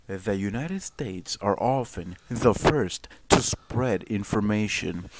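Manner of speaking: measured, emphatic news anchor read. Shown as a demonstration. Streamer repeating the quote for viewers, news anchor voice. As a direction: deliver it deliberately like a serious newscaster. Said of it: "I'll put on my news anchor voice".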